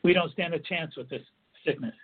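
firm, punctuated statement of defeat; with certitude. Shown as a demonstration. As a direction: say it with powerful, certain inflection. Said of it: "saying it with certitude".

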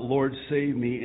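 loud, urgent cry for help. Acted. Peter sinking in the water, loud desperate cry to Jesus. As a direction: call out as if sinking.

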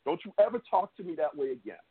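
menacing, measured threat; shaking with anger. Real, not acted. Heated argument, repeated warning.

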